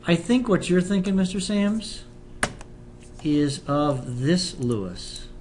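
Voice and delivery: slow southern drawl; slow Southern teacher accent. Acted. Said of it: "I do like my southern accent".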